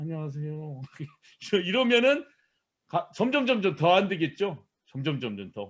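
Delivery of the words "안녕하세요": faint, mosquito-thin, very hushed, tiny timid voice. Describing a withdrawn person greeting a customer: tiny, mosquito-like greeting. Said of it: "모기 소리 같이 작은 목소리로".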